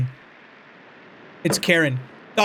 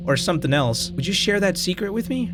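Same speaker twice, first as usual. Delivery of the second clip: a lightly voiced sly talking potato, a bit higher; 5 semitones higher than usual. Potato in the drawer quizzing the player, lightly voiced and sly. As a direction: play the sneaky potato in the drawer, needling.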